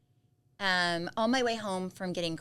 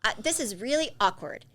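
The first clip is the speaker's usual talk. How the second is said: awkward rambling; 3 semitones higher, 6 dB louder than usual. Retold or imitated. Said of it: "And I said".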